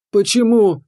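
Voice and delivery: high wailing cry of a captured fairy. Acted. A fairy pounding his stone back, wailing. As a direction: wail it out, desperate. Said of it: "взвыла".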